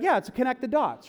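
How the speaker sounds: put-on high, loud kid voice; childlike excitement; excited kid. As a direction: play an eager child. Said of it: "you're like".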